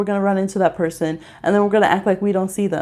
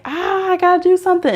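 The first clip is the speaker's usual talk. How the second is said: higher, frantic "gotta do something"; panicked inner voice; 9 semitones higher, faster than usual. Retold or imitated. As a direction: act suddenly anxious and rushed. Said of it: "now they're like".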